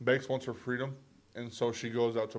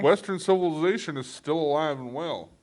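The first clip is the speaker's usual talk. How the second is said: loud, higher cowboy narrator; hammed-up cowboy voiceover; 4 semitones higher, 7 dB louder than usual. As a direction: proclaim it like a cowboy announcer. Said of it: "in your cowboy voice".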